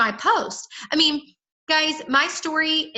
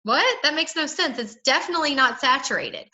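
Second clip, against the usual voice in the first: a raised, incredulous "What?" then easing down; mock disbelief. Shown as a demonstration. Seller brushing off a worried prospect, incredulous. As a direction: scoff as if the idea is absurd. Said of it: "I make people sound like".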